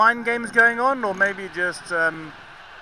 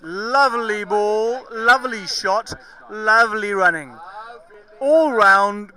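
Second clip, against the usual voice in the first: excited praise; 2 semitones higher, 5 dB louder, slower than usual. Real, not acted. Praising a good passage of play.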